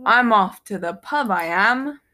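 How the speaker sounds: put-on British pub-goer's accent. Showing off British slang to a co-host, mock British accent. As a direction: play it up as a Brit. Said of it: "that's very British".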